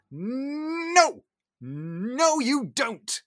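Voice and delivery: high, loud defiant cry of no; a small servant finally shouting back. Retold or imitated. Cogsworth defies his master.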